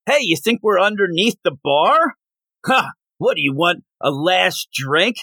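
lightly put-on Aussie villain voice; Australian accent. Podcast host mocking Bushwhacker's quip, light Australian accent. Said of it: "as you can tell from my impersonation".

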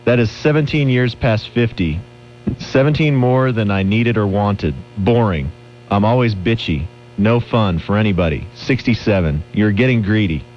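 slow, solemn mock-serious reading; hammy dramatic reading. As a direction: read it like a grave eulogy, hammed up. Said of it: "let's hear him do a dramatic reading of it".

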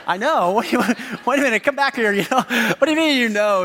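amused, laughing mock protest; laughing disbelief. Dad laughing at his daughter's cheeky answer, amused. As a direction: chuckle through a startled question.

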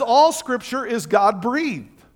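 measured scripture quote; scripture reading. Acted. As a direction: lay the verse out deliberately. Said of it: "he says".

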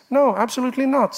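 sudden high, loud, fast no; emphatic denial. Real, not acted. Preacher rejecting sinning for grace, emphatic loud no. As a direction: cut the idea down hard and fast. Answering his own rhetorical question.

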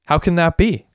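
high-pitched incredulous question; disbelief. A narrator's reading. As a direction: ask it as if you can't believe it, pitch leaping up. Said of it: "said Derek in disbelief".

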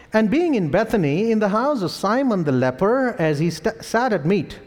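measured Bible reading with lilting pitch; formal recitation of scripture. Real, not acted. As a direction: read the verse out to a congregation. Reads scripture aloud.

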